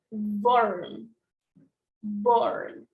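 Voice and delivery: "barn" with the mouth opened wide on the vowel. Shown as a demonstration. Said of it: "you have to open more your mouth".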